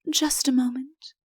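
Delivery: softly, eager, half to herself; a soft eager aside; eager whisper to herself. A narrator's reading. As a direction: murmur it under the breath. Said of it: "whispering eagerly to herself".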